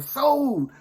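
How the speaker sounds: drawn-out "sold" like an auctioneer; high, falling mock auction cry; hollered auction call. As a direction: imitate a distant auctioneer's holler. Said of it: "I hear them holler".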